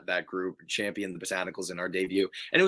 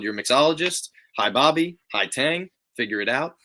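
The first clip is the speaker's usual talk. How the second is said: brisk higher mock instruction; lightly acted, higher-pitched briefing; 4 semitones higher, 4 dB louder than usual. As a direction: hand out the roles like a quick order. Quoting how they were briefed.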